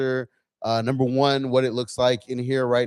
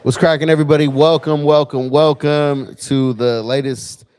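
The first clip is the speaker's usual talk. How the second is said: excited greeting; 3 semitones higher, 7 dB louder than usual. Real, not acted. Livestream host opening greeting.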